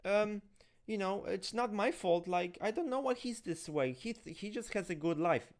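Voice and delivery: mock the clueless parents; imitating parents shrugging off blame. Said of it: "the parents are like".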